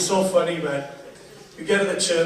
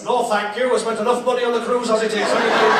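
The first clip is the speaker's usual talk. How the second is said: a touch louder, brusque brush-off; mock British refusal; 4 semitones higher, 5 dB louder, faster than usual. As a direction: turn them down while pushing past. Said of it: "With us British coming behind the photographers".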